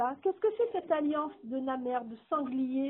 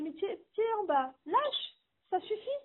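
discouraging voice; 5 semitones higher than usual. Retold or imitated. Discouraging voice quoted in talk.

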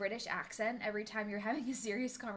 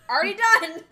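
high, very loud outburst; excited shout; 9 semitones higher, 18 dB louder, faster than usual. Real, not acted. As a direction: shout it out, pitched way up. Blurted answer to the question.

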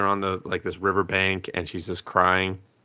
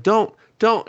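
retold plea; 13 semitones higher, 5 dB louder than usual. Character pleading with him to stop.

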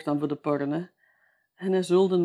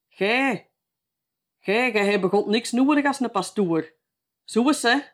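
higher and louder, a retold drunk yelling at the nun; drunken shout; 5 semitones higher, 7 dB louder than usual. Drunk old man yelling at the nun who took his bottle, loud and higher. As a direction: bellow it at her, drunk and furious. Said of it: "riep hem".

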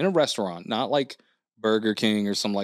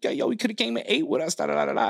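retold excited voice; 11 semitones higher than usual.

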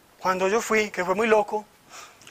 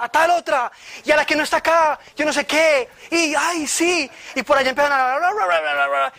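mock rapid-fire prophesying, pitched higher; imitated prayer babble; 4 semitones higher than usual. Speaker mimics retreat leaders praying over each person, mock babbling.

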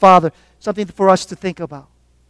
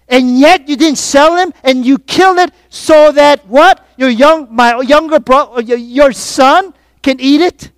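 put-on raised, indignant older brother; pitched up, pressing, ending in an incredulous question; resentful attitude; 4 semitones higher, 4 dB louder than usual. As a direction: act out an affronted sibling's protest. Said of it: "Do you see his attitude here?".

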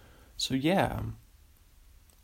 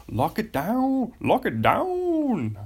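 much higher, slow and louder; mock dramatic; 11 semitones higher, 3 dB louder, slower than usual. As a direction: stretch it out way up high, hammed-up. Playful repeat of catchphrase.

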